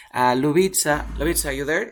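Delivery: loud check for a student; calling out. Real, not acted. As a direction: call out to see if they're there. Calls on a student online. (llamando en voz alta)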